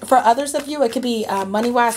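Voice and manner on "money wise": said through a yawn. Real, not acted. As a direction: yawn while saying it. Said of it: "Sorry, guys, I yawned there".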